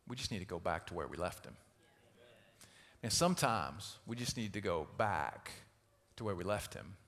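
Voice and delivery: soft, low, deliberate; quiet sincere plea; hushed earnest. Real, not acted. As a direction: let it land gently. Sermon's central point, hushed.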